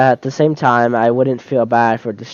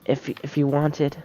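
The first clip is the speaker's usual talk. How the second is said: put-on soft, hesitant shy girl; timid bookish girl, speaking softly; shy Yuri voice; 5 dB quieter than usual.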